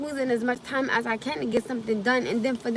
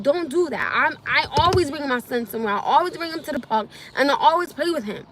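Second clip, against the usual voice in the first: venting hot about the accusation; defending herself, voice rising; real anger; 2 semitones higher than usual. Real, not acted. Venting anger at mother's comment.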